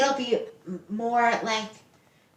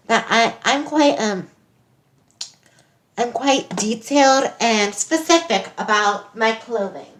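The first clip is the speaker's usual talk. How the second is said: put-on a botched South African accent, drifting toward Nigerian; light South African accent attempt; 3 dB louder than usual. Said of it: "this is her South African accent".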